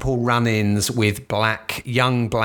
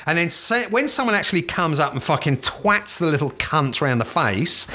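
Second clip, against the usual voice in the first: normal talking voice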